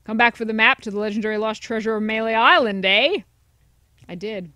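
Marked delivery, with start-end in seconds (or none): 0.0-3.2 a hint of a sly salesman, fast; citizen of Melee. Citizen of Melee greeting a returning customer, sly. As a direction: wheedle like a shifty street vendor. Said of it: "I forget his voice".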